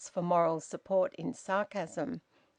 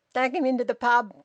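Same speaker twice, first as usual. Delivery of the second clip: loud, rough, higher growl; 5 semitones higher, 7 dB louder than usual. A narrator's reading. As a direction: bark it out as a rude collier. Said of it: "growled the collier".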